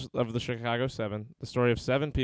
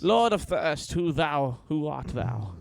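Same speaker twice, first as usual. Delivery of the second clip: mock dramatic voice; 4 semitones higher, slower than usual. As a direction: ham it up like a herald. Mock grand address to username.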